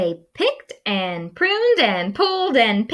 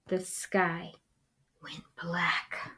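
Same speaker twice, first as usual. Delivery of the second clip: much softer, fading to a whisper; ominous hush; 2 semitones lower, 12 dB quieter than usual. A narrator's reading. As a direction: let it go dark. Ominous hushed narration.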